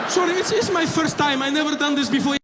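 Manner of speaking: put-on high, apologetic accented voice; acted embarrassed first-timer; sheepish bomber. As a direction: apologise haltingly in a Middle Eastern accent. Bomber sheepishly admits inexperience.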